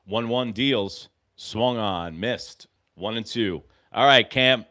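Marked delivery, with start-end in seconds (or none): 3.9-4.6 higher, louder rallying call; cheering on. Real, not acted. Fan cheering his pitcher to strike the batter out. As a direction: pump up the pitcher like he can hear you.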